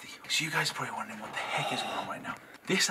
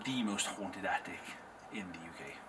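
spooky whisper; 6 semitones lower, 5 dB quieter than usual. Real, not acted. Spooky hushed telling.

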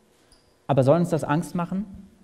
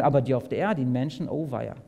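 mock dismay; 4 semitones lower than usual. Mock pity for those on earth.

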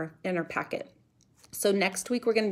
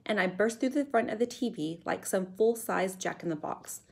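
put-on measured read-aloud for children; story narration. A narrator's reading. Teacher reading a chapter to pupils, storytelling voice. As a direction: tell the adventure clearly, with suspense.

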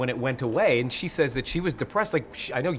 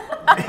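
high loud laugh; sudden high giggle; burst of laughter; 7 dB louder than usual. Real, not acted. Laughing at water joke.

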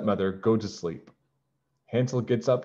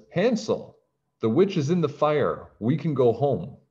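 excited calling; 6 semitones higher than usual. Acted. Gretel calls to brother excitedly.

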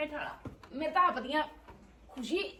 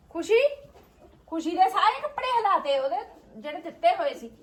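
dramatic loud aunty; 4 semitones higher, 3 dB louder than usual. Real, not acted. Calling out, complaining loudly.

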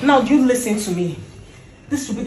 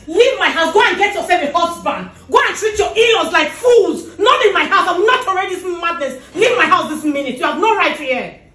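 angry order; 2 semitones higher than usual. Acted. Wife ordering sister-in-law out.

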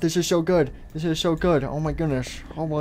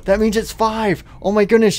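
excited surprise; 5 semitones higher, 4 dB louder than usual. Acted. Realises the hour has changed.

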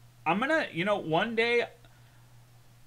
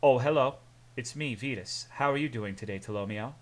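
lightly voiced curt, polite greeting; a hint of a reserved, sophisticated man; Vetus. Streamer imagines another Lithuanian friend saying hello, curt and polite. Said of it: "What if that's how Vetus sounds?".

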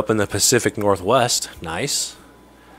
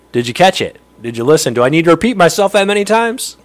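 grumpy; 5 semitones higher, 6 dB louder than usual. Real, not acted. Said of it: "then I may have been grumpy".

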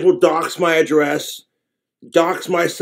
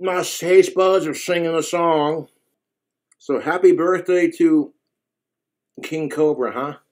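chewing sandwich while talking; words between bites; mouth full. Real, not acted. Seen 1: Cheeks full after big bite; jaw works while speaking, sandwich in hand.

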